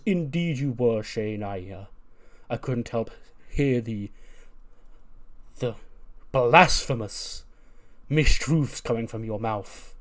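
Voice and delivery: slow, stately rebuke, stretching blasphemous; a lightly voiced pompous professor; lofty scolding. The speaker chiding his student, slow and grand.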